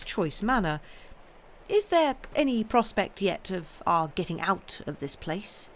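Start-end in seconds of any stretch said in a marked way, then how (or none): 1.7-5.7 lightly casual question; airy. Acted. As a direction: make light of worry. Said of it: "affect to make light".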